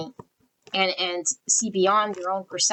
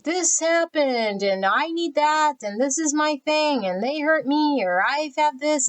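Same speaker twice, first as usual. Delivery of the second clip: lightly voiced complaining client; mimicking excuses; 4 semitones higher than usual. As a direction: pitch up, mock whiny list of excuses.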